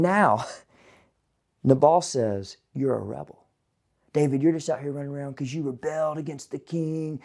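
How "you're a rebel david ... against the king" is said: sneering accusation. Acted. Nabal accusing David of rebellion.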